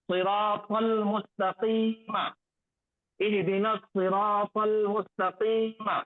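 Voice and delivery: slow measured recitation; slow Quranic reading as a model. Shown as a demonstration. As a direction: recite it slowly, each syllable drawn out. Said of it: "recites the verse as model".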